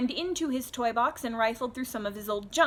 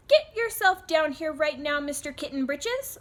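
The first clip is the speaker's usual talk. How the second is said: higher, louder motherly order; 6 semitones higher, 4 dB louder than usual. Acted. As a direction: call him downstairs like a cross mom. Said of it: "ordered Mama Junebug Jones".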